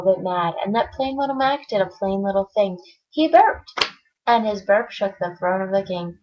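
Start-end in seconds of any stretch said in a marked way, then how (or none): 3.1-3.7 louder, higher punch; louder storyteller punch; punchline. A narrator's reading. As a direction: land the big moment. The burp moment.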